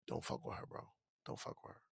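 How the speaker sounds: breathy whisper, no voice at all; whispered warning. Retold or imitated. Fan at the bar warns the comic, whispering. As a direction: whisper it like a secret tip-off. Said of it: "whispered to me".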